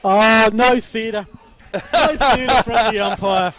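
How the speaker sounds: breathless, slow after shouting; winded, gasping for air; out of breath. Real, not acted. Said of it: "I'm out of breath".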